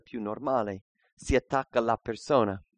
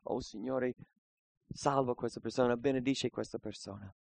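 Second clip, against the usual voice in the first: much softer, humble plea; hushed prayer of blessing; gentle prayer; 9 dB quieter than usual. Retold or imitated. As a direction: pray tenderly for the one who hurts you. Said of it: "esempio buono di cosa fare".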